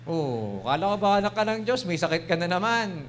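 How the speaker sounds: a hint of a jeering devil; preacher acting the devil accusing a sick Christian; sneering devil voice. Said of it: "Yung ganun yung boses ng demonyo".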